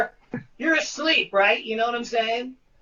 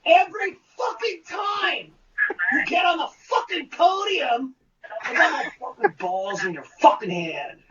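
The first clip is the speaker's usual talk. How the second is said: higher, fast, relentless lecture; ranting director; 6 semitones higher than usual. Retold or imitated. Director lecturing the actor before the cast, fast and shouted. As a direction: drive every word home at the actor. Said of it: "He goes".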